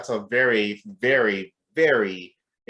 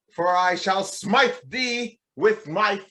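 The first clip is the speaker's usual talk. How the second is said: mock Shakespearean; 10 semitones higher, slower than usual. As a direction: ham it up like a stage Shakespearean. Mock Shakespeare after Hamlet talk.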